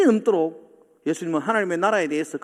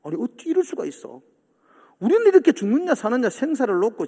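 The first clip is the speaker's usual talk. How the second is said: critical complaint; 2 semitones higher than usual. Retold or imitated. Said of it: "굉장히 비판적이 됩니다".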